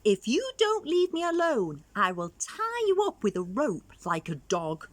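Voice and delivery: little Chameleon telling the bully off; storybook threat with a high, loud start that settles; shouting angrily. Acted. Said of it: "Chameleon shouted angrily".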